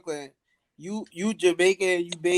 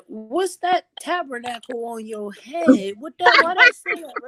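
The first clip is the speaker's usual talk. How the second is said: surprised; 7 semitones higher, 5 dB louder, slower than usual. Retold or imitated. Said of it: "Nigga said".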